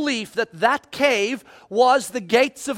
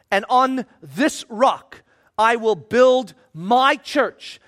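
slow, lower, weighty reading; solemn scripture reading; 3 semitones lower, slower than usual. Acted. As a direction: let each phrase land, slow and grave. Reads Jesus' words from scripture.

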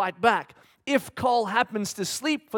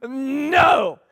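higher, louder no with a laugh; laughing shout; 4 semitones higher, 7 dB louder, much slower than usual. Retold or imitated. Dad laughing as he tells his daughter not here, loud. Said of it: "And I go".

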